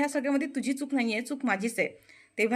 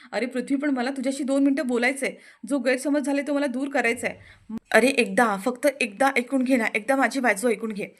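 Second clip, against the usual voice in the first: loud pleading; 3 semitones higher, 6 dB louder than usual. Acted. Anandi begging Prithvi to hear her side, loud pleading. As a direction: plead with all your voice to be heard.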